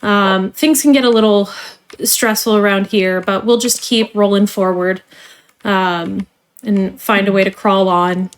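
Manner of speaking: polished corporate trainer voice; cheerful company onboarding spiel; customer service voice. Acted. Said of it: "let me put away my customer service voice now".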